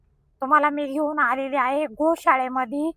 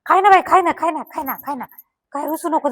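coaxing the cow. Real, not acted. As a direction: sweet-talk a sulky cow into eating.

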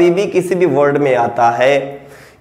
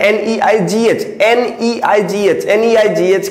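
slow spelling out; 2 semitones higher than usual. Shown as a demonstration. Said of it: "इसके नीचे वाला word है".

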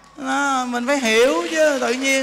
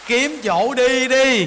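slow urging; 2 semitones higher, 5 dB louder, much slower than usual. Acted. Urging old women to leave home.

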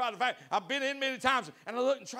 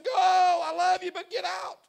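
imitated firm counselor; 11 semitones higher, 12 dB louder, slower than usual. Counselor ordering couple out.

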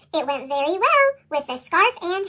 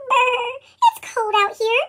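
shivering; 3 semitones higher than usual. Acted.

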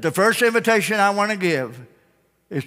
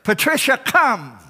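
raised, sing-out holler; calling out; 6 semitones higher, 3 dB louder, slower than usual. Acted. Preacher calls a sheep by name, calling out. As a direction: call the name out, falling on "come".

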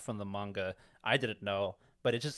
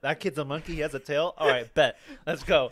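higher-pitched, animated retelling of a first reaction; excited younger self; 4 semitones higher, 5 dB louder than usual. Retold or imitated. Retelling first seeing Gohan's tail, excited. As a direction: act out being baffled, then all in. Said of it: "I was like".

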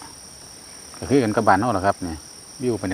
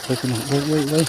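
higher, urgent hey hey hey; excited yelp; 5 semitones higher than usual. Real, not acted. Angler fighting a fish on the line, urgent. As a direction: urge the fish in.

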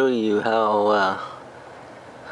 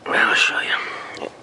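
talking around a flashlight held in the teeth; muffled, mouth propped open by a flashlight. Real, not acted. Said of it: "flashlight in my mouth".

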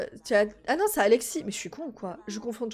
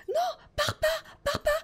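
much higher, begging don't go; high pleading. Real, not acted. Player begging her sim not to leave, high plea.

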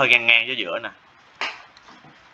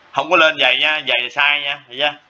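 higher and louder, a teacherly scold; teacher tells students not to draw the rising line thick, raised firm voice; firm warning; 5 semitones higher, 3 dB louder than usual. Real, not acted. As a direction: pitch up and push to stop a mistake. Teacher warns against thick lines.

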